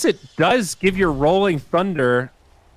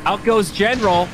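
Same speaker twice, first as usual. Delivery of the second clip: higher, urgent live play-by-play; 5 semitones higher than usual. Real, not acted. Caster calls a team fight for viewers, live play-by-play. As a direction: call the fight as it happens.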